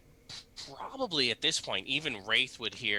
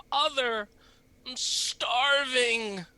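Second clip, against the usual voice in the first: high pleading cry; 13 semitones higher, 5 dB louder, much slower than usual. Acted. Young man's cry from below.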